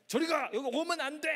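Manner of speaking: shooing away. Acted. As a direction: warn them to keep back. Acted warning-off.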